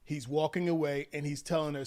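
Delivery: usual speaking voice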